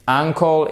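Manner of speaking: "uncle" stressed on UN; stress on first syllable. Shown as a demonstration. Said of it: "vous mettez l'accent tonique sur la première syllabe".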